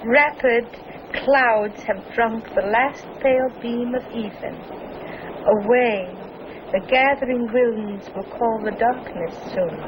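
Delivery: poem recitation. Acted. Recites Shelley aloud.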